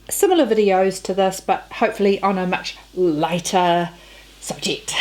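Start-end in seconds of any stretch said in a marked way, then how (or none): 2.9-4.9 breathy laugh through the word. Real, not acted. Laughing at own gloomy video.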